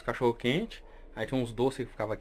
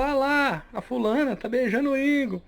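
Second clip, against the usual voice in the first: put-on kid tattling; 11 semitones higher, slower than usual. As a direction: call it out like a little cousin telling on them. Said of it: "E ele falou". (priminho dedurando, agudo e alto)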